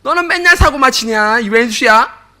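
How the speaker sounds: nagging that builds to a loud, high shout; tut-tut then blow up at the troublemaker; mock mother berating her son for another mess; imitating a scolding mother. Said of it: "또 한마디 합니다".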